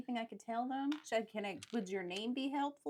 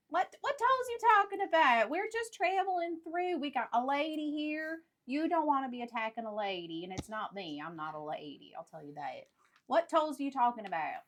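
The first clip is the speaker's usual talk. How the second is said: a lightly voiced indignant traveller, higher and louder; mock traveller; 3 semitones higher, 5 dB louder than usual. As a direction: argue with the bandit in a put-on voice. Player voices a traveller character.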